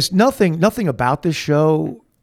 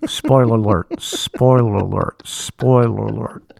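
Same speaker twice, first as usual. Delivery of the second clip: loud, drawn-out spoiler warning; mock warning; 5 dB louder than usual. Teller warns listener before revealing the plot, mock warning. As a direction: announce it like an alarm, loud and slow.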